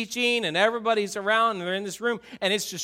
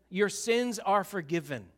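quiet blessing; 3 dB quieter than usual. Acted. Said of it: "Jesus looks and says".

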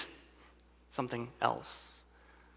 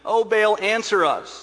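raised, loud cry to a god; shouted plea; 7 semitones higher, 7 dB louder, slower than usual. A narrator's reading. Prophets of Baal call on their god at noon, shouting. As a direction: call out loudly, higher pitched, as read aloud. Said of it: "they shouted".

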